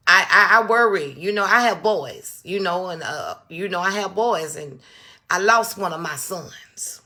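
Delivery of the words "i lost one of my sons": slow broken whisper; grieving whisper. Real, not acted. Mother telling viewers about her son, grieving whisper. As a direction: let the grief take the voice away.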